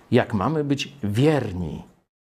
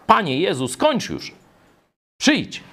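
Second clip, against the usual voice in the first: high, urgent plea called out; crying out; 9 semitones higher than usual. Acted. Church calling on Jesus to end it, crying out. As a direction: call upward, pitch raised throughout. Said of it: "tu woła".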